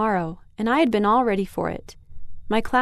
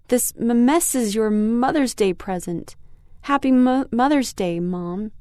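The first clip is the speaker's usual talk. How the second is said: choked up; 2 semitones higher than usual. Acted. Girl telling mom the gift is ruined, choking up. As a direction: fight the lump in your throat. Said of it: "trying to swallow the lump in my throat".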